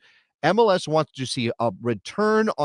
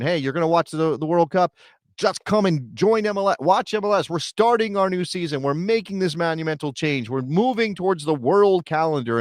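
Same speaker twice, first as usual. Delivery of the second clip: mock hype pitch; 4 semitones higher than usual. Imagined MLS hype pitch.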